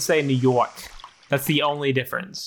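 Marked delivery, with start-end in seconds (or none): 0.2-0.7 mock New York accent. Friend mocks how his partner used to say "New York". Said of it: "Why would you say it like that?".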